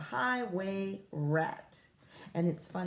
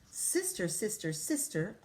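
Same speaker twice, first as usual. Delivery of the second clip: cave echo; 4 dB quieter than usual. Acted.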